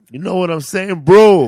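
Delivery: put-on loud, high-pitched Mexican-accent persona. Adding flavor for the audition, loud Mexican accent. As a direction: punch BRO hard in a Mexican accent. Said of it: "I had a little".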